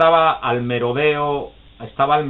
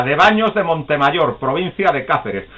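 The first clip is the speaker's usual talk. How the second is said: smug correct answer; 4 semitones higher, 4 dB louder than usual. Retold or imitated. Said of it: "con toda la mala leche".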